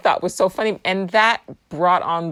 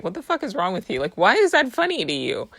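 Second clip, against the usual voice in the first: retold baffled cousin; 6 semitones higher, faster than usual. Quoting cousin's baffled reaction.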